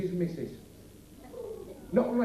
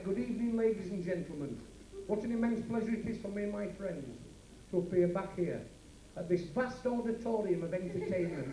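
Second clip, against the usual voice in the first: posh announcer demo; 2 semitones lower, 6 dB quieter than usual. Shown as a demonstration. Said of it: "I wanted you to come out here and say".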